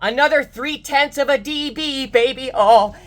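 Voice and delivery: gloating happily over the new record; excited cheering. Real, not acted.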